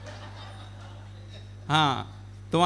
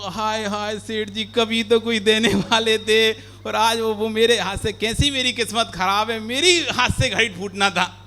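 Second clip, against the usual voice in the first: mock wailing; 4 semitones higher, 3 dB louder than usual. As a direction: wail over the lost gift like a servant. Servant bewails his lost luck. (नाटकीय विलाप, धीमे और ऊँचे स्वर में)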